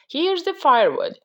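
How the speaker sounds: high storybook call; shouted. A narrator's reading. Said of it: "shouted Jack".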